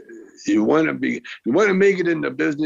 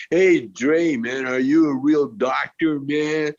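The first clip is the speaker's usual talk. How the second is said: hippie voice; 2 semitones higher, slower than usual. Retold or imitated. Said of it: "I did my hippie shit".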